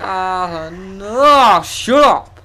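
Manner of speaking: hammed-up exasperated outburst, shouting down a partner; mock quarrel shout. Acting out a couple's quarrel.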